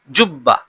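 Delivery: "জুব্বা" with a short, unstretched final vowel; no elongation. Shown as a demonstration. Teacher warning there is no stretch, short final vowel. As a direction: keep the end of "জুব্বা" short. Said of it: "কোনো টানও হবে না".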